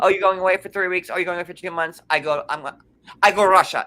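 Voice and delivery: playing Yara in broken Russian-accented English; mock Russian accent. Mimicking Yara brushing off husband's trips, mock Russian accent. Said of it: "I've been working on my Russian accent".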